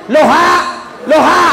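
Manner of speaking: high, loud reversed hello; comic phone shout. Acted. Haji told it is backwards, comically hollering hello reversed. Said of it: "Langsung dah bilang ni".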